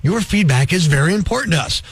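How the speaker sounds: soothing, hollow corporate calm; scared hostage forced calm. Retold or imitated. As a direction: fake calm negotiator voice. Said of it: "fake, calm, hostage negotiator voice".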